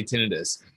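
"tinnitus" said TIN-ih-tus; speaker's chosen pronunciation. Shown as a demonstration. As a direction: stress TIN at the start of "tinnitus". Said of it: "I'm going to say".

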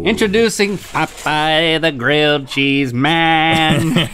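announcer voice. Acted. Announcing the dish.

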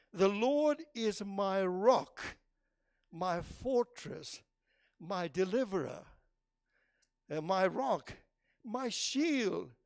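slow, measured psalm reading with long pauses; scripture reading. Acted. Preacher reading Psalm eighteen to the congregation, slow and reverent. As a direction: savour each title of God.

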